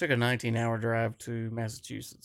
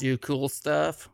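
drawn-out Valley Girl impression, slower; 2 semitones higher, slower than usual. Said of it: "in a Valley Girl voice".

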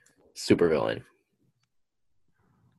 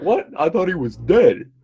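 higher-pitched astonished fake German soldier; bad German accent; 6 semitones higher than usual. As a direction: botch a German accent in mock disbelief. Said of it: "that's not a German accent".

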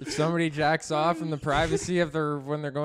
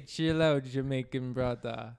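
put-on Jamaican accent; 3 semitones lower than usual. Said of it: "Why do you always do an accent?".

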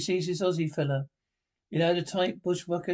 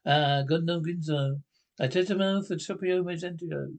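put-on gibberish Latin TV presenter accent; mock Mediterranean accent. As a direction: parody a southern European broadcast accent. Mock foreign television patter.

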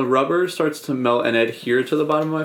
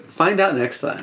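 dramatic announcer voice; 3 semitones higher than usual. Pretend. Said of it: "really dramatic voice?".

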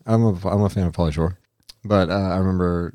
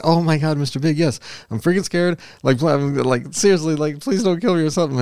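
much higher, imitating a frantic begging victim; imitating pleading woman; 8 semitones higher than usual. Prank victim begging the gangster not to kill her, imitated high and frantic. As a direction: mimic her panic as she pleads with Mister Big. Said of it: "she's, like, screaming and everything".

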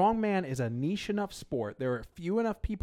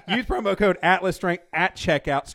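wired and laughing; buzzing on two hours sleep; too much caffeine; 4 dB louder than usual. Real, not acted. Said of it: "I am, like, wired right now".

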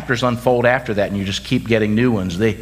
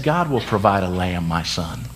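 calm reassurance; 3 semitones lower than usual. Retold or imitated. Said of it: "He said".

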